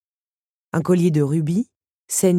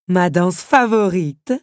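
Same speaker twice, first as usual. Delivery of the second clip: exclamation; 3 semitones higher, 7 dB louder, slower than usual. A narrator's reading. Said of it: "s'exclama la comtesse".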